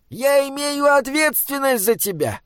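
high, strained troll voice; high-pitched, worried protest; anguished troll guardian. Acted. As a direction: plead with him, pitch held high.

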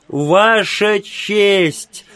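high, slow gasping plea; breathless cry. A narrator's reading. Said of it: "задыхаясь, проговорила она".

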